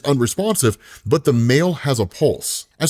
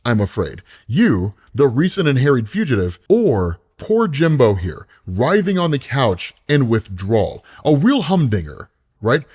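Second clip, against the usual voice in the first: sly ice cream man. Acted. Ice cream man offers choice.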